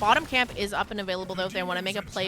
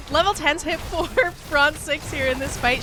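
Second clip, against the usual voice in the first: laughing; 4 semitones higher than usual. Real, not acted. Caster giggling mid-call.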